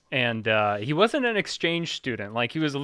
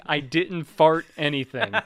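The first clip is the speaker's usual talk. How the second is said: slow, louder mock French accent; thick French accent; 2 semitones higher, 5 dB louder than usual. French kid who kept denying it, thick French accent. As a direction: draw out the denial in a put-on French accent. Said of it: "in a thick French accent".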